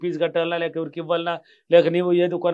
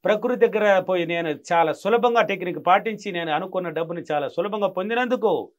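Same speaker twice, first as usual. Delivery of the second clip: joyful affirmation; 5 dB louder than usual. Shown as a demonstration. Guru demonstrating the money affirmation to the caller, elated and loud. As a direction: proclaim your thanks like you already won.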